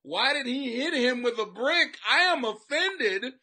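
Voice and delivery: high, loud mocking whine; mock a prissy offended viewer. Imitating a viewer offended by cartoons, high mocking whine. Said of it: "cartoons going".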